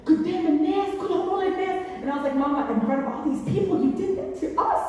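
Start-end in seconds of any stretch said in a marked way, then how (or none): 0.0-1.8 mother's rapid scolding, climbing in pitch. Retold or imitated. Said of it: "She goes". 2.5-4.8 fast protest climbing high; retold indignant complaint to a mother; mock reproach. Retold quarrel between mother and daughter.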